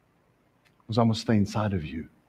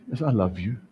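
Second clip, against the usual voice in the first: gentle loving Lord; 4 semitones lower, 4 dB quieter than usual. Retold or imitated. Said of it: "The Lord just says".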